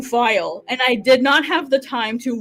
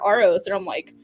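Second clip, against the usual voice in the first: usual speaking voice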